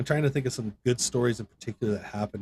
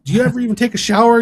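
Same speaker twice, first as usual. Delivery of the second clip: much higher, louder and fast mock yell; drill sergeant bark; 13 semitones higher, 9 dB louder, faster than usual. Drill sergeant to a sick recruit, mocking high bark. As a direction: mimic a sergeant sneering at a sweaty recruit. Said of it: "he's like".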